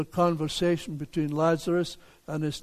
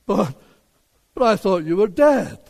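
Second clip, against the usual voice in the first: halting, then louder in acted disbelief; startled neighbor; 4 dB louder than usual. Neighbor who thought Lazarus was dead, shocked. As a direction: stammer on "but", then push out the shock. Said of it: "His neighbor says".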